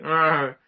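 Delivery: imitated Wookiee roar; short, loud creature growl; Chewie growl. Friend voices Chewie complaining to Han, growling. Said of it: "Chewie's like".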